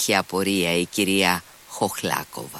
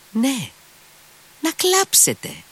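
much higher, gushing delight; slower than usual. Acted. Lady thrilled at Mitya's tears, gushing high. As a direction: soar up with rapture.

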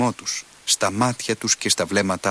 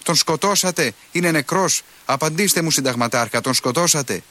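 shouting while running; 7 semitones higher than usual. A narrator's reading. Monk running toward the colonel, shouting high and desperate. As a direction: call out as he runs, pleading for an answer. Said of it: "Φωνάζει τρέχοντας".

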